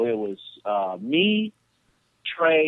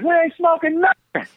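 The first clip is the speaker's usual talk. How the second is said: Trey denying; 13 semitones higher, 5 dB louder than usual. Retold or imitated.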